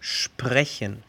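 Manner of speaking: "sprechen" with initial sh, "shprechen"; S como sh. Shown as a demonstration. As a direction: open "sprechen" on a hushing shp. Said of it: "la S cambia su pronunciación". ("sprechen" pronunciado "shprejen")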